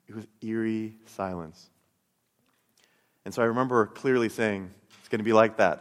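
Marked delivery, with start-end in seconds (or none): 5.0-5.8 a wry, laughing dare, said at normal volume; half-laugh it like a bitter challenge; sarcastic challenge to God. Retold or imitated. Angry believer mocking God after hearing nothing, with a wry laugh. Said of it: "And I was angry".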